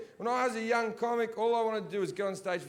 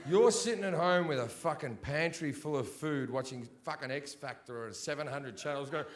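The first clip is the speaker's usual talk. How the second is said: ordinary talk, nothing marked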